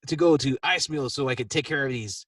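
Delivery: Puck acting tough; a touch of swagger; mock giant tongue. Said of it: "As, and".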